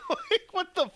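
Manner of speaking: very high, incredulous squeak; incredulous squeal. Real, not acted. Fan reacting to five v five with few characters, incredulous squeal. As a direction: voice shoots up in disbelief.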